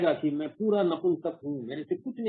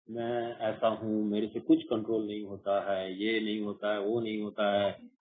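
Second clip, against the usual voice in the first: mock helpless whine; 4 semitones lower, 5 dB quieter than usual. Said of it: "सब कुछ बोलते हैं".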